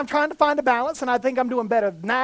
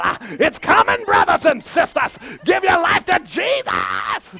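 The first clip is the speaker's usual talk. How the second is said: hammed-up hellfire warning, loud at the ends; mock fire and brimstone; 3 dB louder than usual. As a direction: lightly parody a stern street preacher. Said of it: "I was fire and brimstone".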